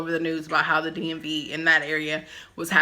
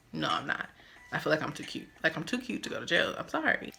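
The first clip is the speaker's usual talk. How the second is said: softer, mumbled defiance; quiet aside; 10 dB quieter, faster than usual. Real, not acted. Refusing general population, quiet aside. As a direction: say it under your breath.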